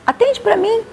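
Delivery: high call from another room. Retold or imitated. Host from the shower, high calling voice. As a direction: call out for someone to get the door.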